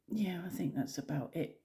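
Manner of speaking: soft whisper, trailing. Real, not acted. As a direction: whisper it, winding down. Quiet close.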